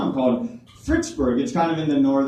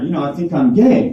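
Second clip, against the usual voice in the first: raised voice, repeating so dad hears; a little louder, to a half-deaf dad; 6 dB louder than usual. Retold or imitated. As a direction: say it louder the second time. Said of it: "I go a little louder".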